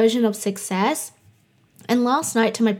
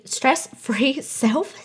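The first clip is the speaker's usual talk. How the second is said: laughing retry; 3 semitones higher, much slower than usual. Real, not acted. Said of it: "some things I can't say".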